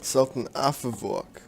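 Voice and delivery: "Afavork" with a German v for the w; German-like pronunciation. Real, not acted. Gamer reading out a sultan's name, German-like pronunciation. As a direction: say "Afavork" slowly, as a German would. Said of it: "say that like a German".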